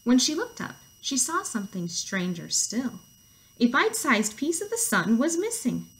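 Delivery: lively read-aloud; story narration. A narrator's reading. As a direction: read it to children with swooping emphasis.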